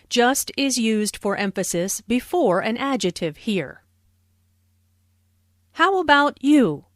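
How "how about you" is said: How about you with a falling tune at the end. Shown as a demonstration. Teacher shows How about you falling at the end. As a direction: let the question drop down on you. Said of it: "Notice the intonation falls here".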